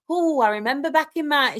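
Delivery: mock a reminiscing mum; old woman impression. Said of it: "gonna do an old woman impression of you".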